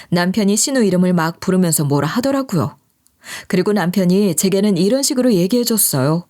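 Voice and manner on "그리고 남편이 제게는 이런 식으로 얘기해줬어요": ordinary delivery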